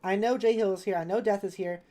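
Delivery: loud, upbeat roll call. Real, not acted. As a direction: call out to chat cheerfully. Calling roll of chat.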